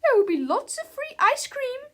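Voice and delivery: high, loud teacher voice; stern teacher. A narrator's reading. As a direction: announce it over a noisy classroom. Acted teacher addressing her class.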